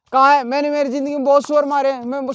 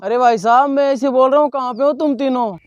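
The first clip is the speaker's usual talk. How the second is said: loud phone talk. Acted. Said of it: "इतनी जोर से तो बोल रहा हूँ".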